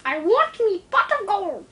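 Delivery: cartoon Irish leprechaun, stressing want; greedy little leprechaun demanding gold. Continuing the leprechaun bit.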